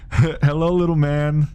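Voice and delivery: high mock Schwarzenegger voice; Arnold greeting. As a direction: greet a kid as Arnold, hammed up. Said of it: "he looks at me and goes".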